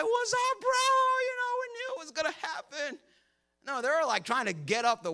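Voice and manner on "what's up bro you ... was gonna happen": casual bro. Retold or imitated. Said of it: "They weren't like".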